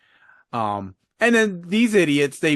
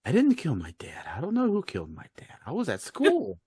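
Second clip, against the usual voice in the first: mock innocent suspect; 3 semitones higher, 8 dB quieter than usual. Captured killer pleading to police, mock innocent. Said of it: "then she starts, like, going".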